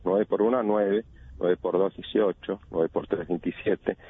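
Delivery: sing-song schoolkid times-table chant; rote recitation. Retold or imitated. Expert imitates children reciting the nine times table, in a sing-song chant. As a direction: recite it like a bored pupil by memory. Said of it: "íbamos a clases y decíamos".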